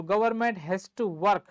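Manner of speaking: very slow, spaced-out teacher repeat; slowly, so the class can write; slow dictation. Shown as a demonstration. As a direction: dictate it word by word. Dictating the English translation to class.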